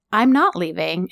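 low, steady acted calm; calm demeanor. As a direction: quote him calmly refusing to budge. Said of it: "like, calm demeanor".

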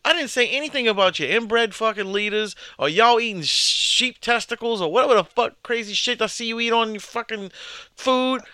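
mock rant. Mock angry rant at friend.

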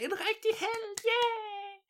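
very high, excited cheering; crowd cheer. Acted. Crowd echoing the king's praise, very high and excited. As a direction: shriek the cheer like a thrilled crowd.

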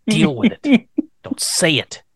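slow, ending in a whisper; urgent self-warning, hushed at the end; mock inner panic. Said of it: "mock inner warning to himself".

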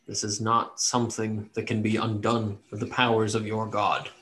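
subdued, lightly voiced elf prisoner; plain-spoken cursed elf. Caged elf answering the cleric in the common tongue, plainly. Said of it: "he says it back plainly".

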